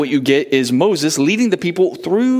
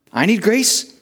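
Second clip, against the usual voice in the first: mock listener asking; 7 semitones higher than usual. Preacher voicing a needy listener.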